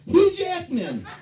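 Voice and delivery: loud, slow, high group shout; yelling out. Retold or imitated. Sisters yelling the answer at a family game, loud and high. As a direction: yell the name like the winning answer. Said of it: "sisters yell out".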